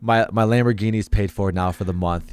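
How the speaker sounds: slightly low, earnest-sounding deadpan; mock serious, concerned. Streamer meming to viewers as a millionaire, mock serious and concerned. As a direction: play the grateful millionaire with mock sincerity. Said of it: "really serious and concerned".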